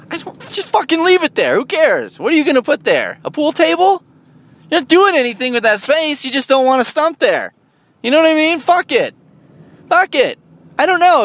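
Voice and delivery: high-pitched, worked-up rant, pitch well above normal; high exasperated outburst about the stump. Real, not acted. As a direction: get fed up and let it fly high.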